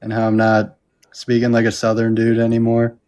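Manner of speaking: Southern accent dropped, evenly pitched; changed accent. Shown as a demonstration. Debater proving he can change his voice, Southern accent dropped. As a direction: drop the Southern accent, keep it level. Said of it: "change my entire voice like I just did".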